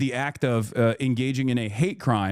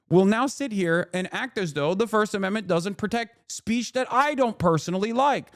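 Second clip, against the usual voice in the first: lightly mocking random internet guy; mock a smug amateur correcting an expert; know-it-all online contrarian; 4 semitones higher than usual. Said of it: "causes people to just go".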